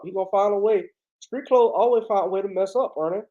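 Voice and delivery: lightly voiced Southern ex-player pundit; casual sports-panel impression, mildly aggrieved; Charles Barkley. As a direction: grumble to your co-host like a TV basketball analyst. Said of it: "Charles Barkley gonna get out of here".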